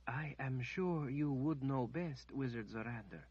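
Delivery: the healer answering the wizard evenly. A narrator's reading. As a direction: keep it even and knowing. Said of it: "she said in an even voice".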